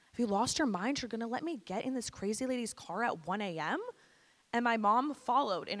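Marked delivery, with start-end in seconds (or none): 0.1-3.8 retold teenage disbelief; incredulous protest. Teen challenging mom about the late drive, incredulous. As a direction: question mom as if the plan is absurd.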